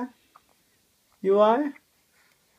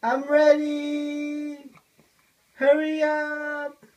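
calling out; much slower than usual. Pretend. Calling dad on baby's behalf.

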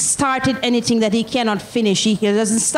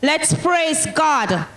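higher, drawn-out call to praise; 4 semitones higher, much slower than usual. Real, not acted. Testifier opening to the congregation, calling out praise.

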